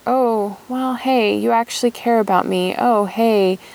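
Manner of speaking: put-on a kid realizing someone cares; lightly voiced happy inner child; delighted inner child. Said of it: "is like".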